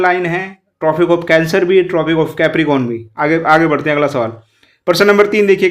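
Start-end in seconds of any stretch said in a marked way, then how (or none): 0.8-3.0 slow emphasis. Shown as a demonstration. Teacher stressing key terms slowly.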